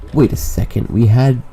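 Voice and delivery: sudden loud disbelief; surprised. Real, not acted. Spots surprise pile of walls.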